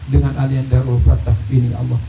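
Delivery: earnest imploring prayer, each plea ending in a dropped ya Allah; leading a prayer. Acted. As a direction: plead humbly for the community, voice falling at every ya Allah. Leads a long communal prayer.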